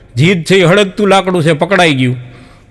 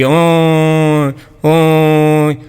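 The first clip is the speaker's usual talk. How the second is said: buffalo lowing imitation; 2 semitones lower, much slower than usual. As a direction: moo the word out like the buffalo calling from home. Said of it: "ભેંસ ગાંગરી".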